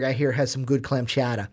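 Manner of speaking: slipping into fake Boston speech; lightly put-on Boston accent; bad Boston accent. Host recommending Pittsburgh chowder, bad Boston accent. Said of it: "talking like Pittsburgh in a Boston accent".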